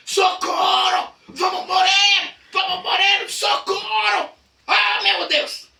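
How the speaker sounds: high, loud, drawn-out shouts; panicked shouting. Acted. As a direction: cry out as if the boat is sinking. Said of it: "eles começaram a gritar". (gritos de pânico, agudos e arrastados)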